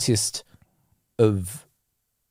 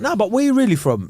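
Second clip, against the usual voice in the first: higher, casual street voice of a mate; mandem friend; 6 semitones higher than usual. Retold or imitated. One of the mandem asks where you're really from, casual mate voice. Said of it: "you're with the man them".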